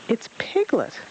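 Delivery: high little peep; tiny relation called Small peeping up. A narrator's reading. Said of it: "a small, small voice peeped".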